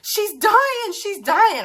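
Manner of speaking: imitating a frightened son; panicked little boy. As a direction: wail it like a terrified kid. Son reports bleeding sister.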